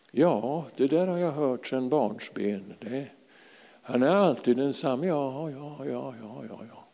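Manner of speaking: mock-weary brush-off, trailing away softly; imitating a bored, heard-it-all listener; blasé. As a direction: act jaded, letting the yeses fade out. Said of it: "har man blivit lite blasé".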